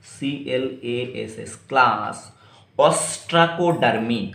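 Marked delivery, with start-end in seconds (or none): 2.8-4.3 ostracodermy said slowly and clearly; slow pronunciation. Shown as a demonstration. Teacher naming the class ostracodermy slowly. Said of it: "एक तो होता है class".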